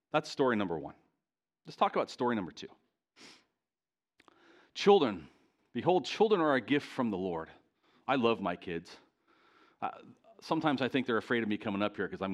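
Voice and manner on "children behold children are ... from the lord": a proclaiming scripture read; scripture proclamation. Acted. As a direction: declare it from the pulpit.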